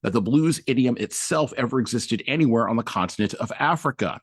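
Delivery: measured, emphatic book reading; reading aloud. Acted. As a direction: read a weighty essay passage out to listeners. Reads book passage aloud.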